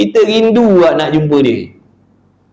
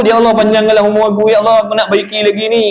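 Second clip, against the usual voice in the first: anxious plea; 3 semitones higher, faster than usual. Acted. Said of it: "Maksudnya takut".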